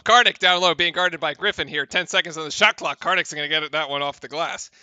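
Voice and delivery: brisk commentator call; play-by-play. Acted. Streamer calling the game for chat, play-by-play. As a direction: call the action like a broadcaster.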